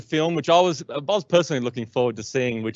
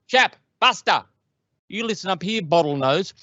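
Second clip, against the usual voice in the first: put-on pushy old salesman; 7 semitones higher than usual. Old counter guy pitching Ned Kelly attraction, high hammed-up barker voice. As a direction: sell it like an overexcited old carnival barker. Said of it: "this guy just starts going off".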